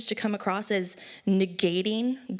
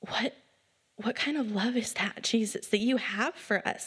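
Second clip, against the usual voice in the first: awed whisper. Retold or imitated. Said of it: "I was just like".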